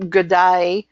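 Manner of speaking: imitated Australian g'day; Australian day sounding like die; Australian accent. Shown as a demonstration. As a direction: lightly put on an Australian accent. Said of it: "the Australian makes it sound like".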